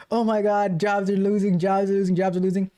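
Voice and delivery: same pitch on each repeated phrase, mock alarm; monotone doomsaying. Streamer mocking an AI commentator's same old takes, in a monotone. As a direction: mimic a repetitive doom pundit in a level drone. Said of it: "Very monotone".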